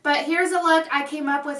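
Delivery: talking through a mouth pierced shut. Real, not acted. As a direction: speak with lips held shut. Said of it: "If you think I'm talking a little weird, it's because my mouth is pierced shut".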